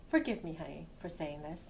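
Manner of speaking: low, soft apologetic aside; quiet apology. Acted. Woman excusing herself to her friend, quiet and low. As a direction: drop the voice way down to ask forgiveness. Apologizes before a delicate remark.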